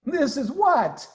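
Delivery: high, slow puzzled question; baffled, drawing the question out; puzzled Badger. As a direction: Badger confused in the cellar. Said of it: "said Badger".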